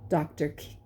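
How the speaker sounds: usual speaking voice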